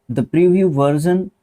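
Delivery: teacher reading the phrase slowly. Shown as a demonstration. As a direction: read the phrase slowly and clearly. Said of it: "reading the sentence slowly".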